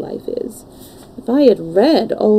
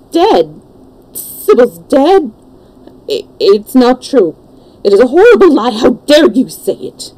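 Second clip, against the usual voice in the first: anguished, louder disbelief; cry of pain; 4 semitones higher, 6 dB louder than usual. A narrator's reading. Lad told his beloved is dead, anguished outcry. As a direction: cry out in shocked denial. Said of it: "A cry of pain broke from".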